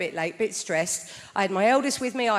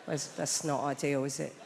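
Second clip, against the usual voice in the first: stunned quiet; 9 semitones lower, 11 dB quieter than usual. Retold or imitated. Mum hearing what her son did, hushed and stunned. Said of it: "I said".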